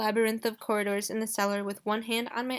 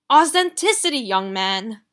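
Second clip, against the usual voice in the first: put-on exasperated French accent; 10 dB louder than usual. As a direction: hammer home the point with French flair. Rossini lecturing Gideon.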